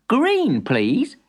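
put-on boy voice. Boy answers.

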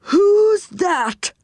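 put-on high-pitched query from an odd old character; high, comical questioning voice; startled character voice. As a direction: pipe up high in a quirky character voice. Deaf saucepan man calls out question.

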